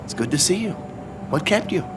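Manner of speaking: very high, lilting greeting; effusive welcome. Acted. Welcoming back old acquaintance.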